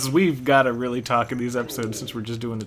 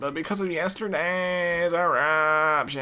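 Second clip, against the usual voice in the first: slow, higher, drawn-out giant voice; giant's voice; 5 semitones higher, much slower than usual. Retold or imitated. Player imitating the giant's slow higher speech to his co-host. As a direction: stretch each word like a huge lumbering giant. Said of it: "That's what he sounds like".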